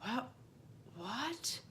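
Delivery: retold stunned "what?", voice lifting at the end; quiet, rising double take; freaked-out disbelief. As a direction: replay being taken aback, hushed and questioning. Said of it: "I went, I freaked".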